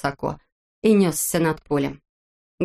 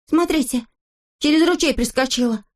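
excited cry; 8 semitones higher than usual. A narrator's reading. Rasteryaika shouting to the others, high and excited. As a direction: point it out, astonished. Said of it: "закричал Растеряйка".

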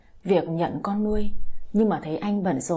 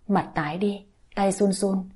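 usual speaking voice

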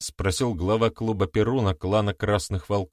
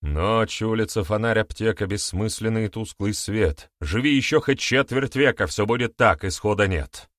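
poem recital. A narrator's reading. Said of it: "произнёс на русском ведун стихотворение Блока".

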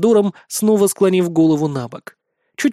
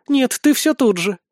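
higher-pitched, mild relief; relieved; 7 semitones higher than usual. A narrator's reading. Goddess recognizing her old acquaintance, relieved. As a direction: say it on a sigh of relief. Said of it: "выдохнула с облегчением".

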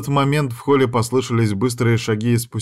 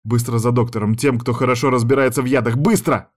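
urgent orders, only a little raised; mild mock shouting; 2 semitones higher than usual. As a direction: hurry the maid off, half-yelled. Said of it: "прокричала я".

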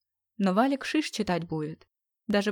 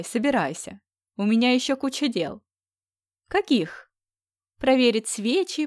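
grumbling friend; 4 semitones higher, 4 dB louder than usual. Acted.

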